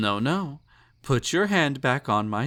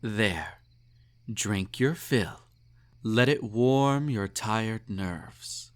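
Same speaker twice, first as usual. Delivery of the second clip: slow soothing; slower than usual. Acted. Emperor feeds wine to pet.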